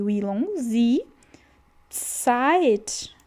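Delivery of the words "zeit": Zeit said tsait, z as ts; ts sound. Shown as a demonstration. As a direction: start Zeit with ts like pizza. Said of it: "o Z no alemão, ele vai ter som de T S".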